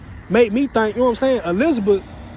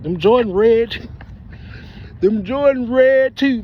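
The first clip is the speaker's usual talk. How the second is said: slow, stretched admiration; slow amused praise; admiring drawl; 3 semitones higher, 3 dB louder, slower than usual. Real, not acted. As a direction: savor the words. Admiring sneakers slowly.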